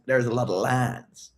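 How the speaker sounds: slow, drawn-out "There's a lot of lines" with a Southern twang; odd accent. Shown as a demonstration. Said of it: "where is that from, that accent?".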